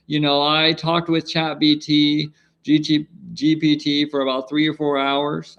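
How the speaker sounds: lightly voiced crypto billionaire; Michael Saylor impression. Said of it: "Michael Saylor impression".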